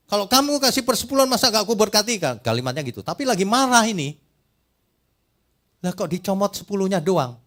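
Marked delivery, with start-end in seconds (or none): 0.1-2.2 high, loud and fast angry rebuke; God speaking angrily. Retold or imitated. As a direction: scold the people as an angry God. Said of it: "Ini lagi marah".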